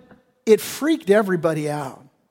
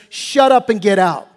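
curt command, a bit louder; blunt rebuke; 4 dB louder than usual. Acted. Preacher paraphrasing Jesus to the demon, curt. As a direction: tell it to get out. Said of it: "he says".

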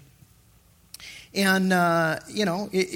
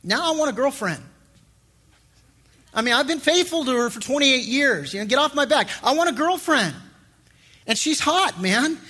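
mock brash demand; 4 semitones higher than usual. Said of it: "I had the attitude where I said".

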